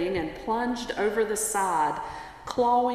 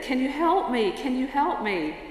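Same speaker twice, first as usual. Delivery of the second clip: higher, louder plea, acted; pleading; 5 semitones higher, 3 dB louder than usual. Fallen tourist begs the voice from above, pleading. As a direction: beg for help in mild mock desperation. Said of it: "the tourist pleaded".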